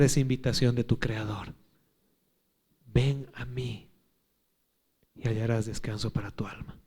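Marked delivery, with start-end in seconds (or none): 2.9-6.8 soft breathy whisper; whispered invitation. Acted. (invitación susurrada)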